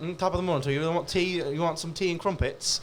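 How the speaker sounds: a lightly put-on British accent. Friend asked for an accent, mild British voice. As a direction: play a mild British stereotype offering tea. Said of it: "That's British".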